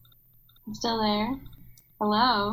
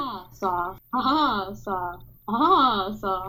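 bunny exercise; much slower than usual. Shown as a demonstration. Sister demonstrates her bunny vocal exercise, bunny imitation. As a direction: alternate the two words like a bunny noise. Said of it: "I think I sound like a bunny".

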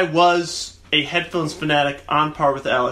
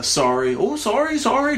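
fake polite apology; 4 semitones higher than usual. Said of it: "Pretend to be a".

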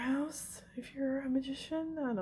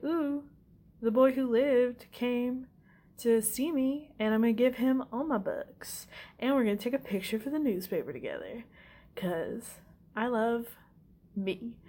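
lightly mocked vain celebrity, pitched up; Gilderoy Lockhart; 4 semitones higher than usual. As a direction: gush with self-love, imitating a show-off. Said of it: "hella full of himself".

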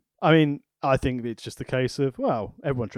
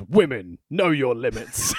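sketch voiceover quote; slower than usual. Retold or imitated. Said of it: "the Harry Enfield sketch where it goes".

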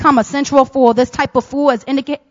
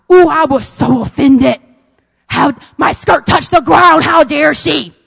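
snobby offended; slower than usual. Retold or imitated. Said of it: "I was snobby like that".

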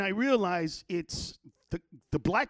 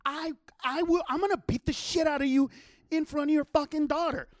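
retold fighting talk, higher pitch; heated threat; 6 semitones higher than usual. Man threatening a father before his daughter, heated threat. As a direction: stand your ground and threaten.

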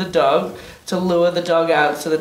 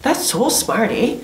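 put-on Canadian accent with a tagged "eh"; teasing a friend with a hammed-up Canadian "eh"; mock Canadian; 5 semitones higher than usual. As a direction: ham up the Canadian "eh". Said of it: "most Canadian you've ever sounded".

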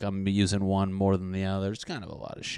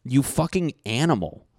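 higher-pitched mock outrage; retold scolding; 5 semitones higher, 4 dB louder than usual. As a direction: scold a messy friend in mock disgust. Retells yelling at his friend.

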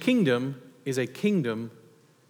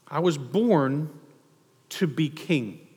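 solemn hush; slower than usual. Acted. Preacher's solemn climax.

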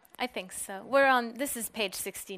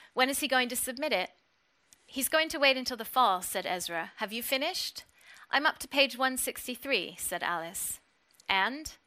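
steady, measured reading of a novel; story reading; 2 semitones higher than usual. Acted. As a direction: read the scene like an audiobook. Reads novel passage aloud.

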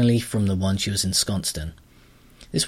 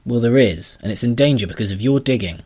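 indignant heroine; 3 semitones higher, 5 dB louder than usual. Acted. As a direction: push back at the creature, indignant. Astrid confronting the grubber.

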